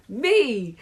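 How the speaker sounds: high, loud eager cry; screaming. Acted. Margaret claiming the tickets, high scream. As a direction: shout to be picked. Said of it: "screamed Moody Margaret".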